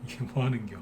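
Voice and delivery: quiet Chungcheong dialect, ending 겨 instead of 거야; soft, lazy Chungcheong 겨 at the end; a Chungcheong local softly grumbling. Shown as a demonstration. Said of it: "보통 이렇게 끝나시죠".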